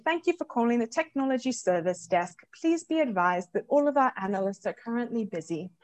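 lightly imitating a British phone recording; a hint of a British service desk message. Guest quoting her British firm's phone recording in a British accent. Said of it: "so I can say".

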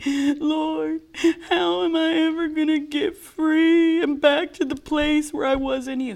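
high, slow, whimpering plea; whiny crying voice. Retold or imitated. Telling Carolyn how she begged the Lord, slow high whine. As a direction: whine it out like you're about to sob. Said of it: "In the same whiny voice".

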